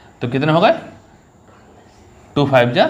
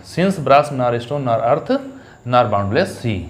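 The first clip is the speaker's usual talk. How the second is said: reading the poem line slowly; slow, deliberate recitation of the verse; slow recited line; much slower than usual. Shown as a demonstration. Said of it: "पूछ लेंगे पहली line कौन सी है". (धीमे से कविता की पंक्ति पढ़ना)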